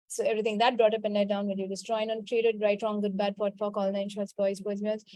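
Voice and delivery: rote recitation. Real, not acted. Healer to her class, reciting a clearing formula by rote. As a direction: recite a memorised formula smoothly.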